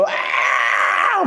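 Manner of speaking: long drawn-out anguished wail. Acted. Preacher acting out a grieving soldier's drawn-out wail. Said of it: "막 소리 지르면서".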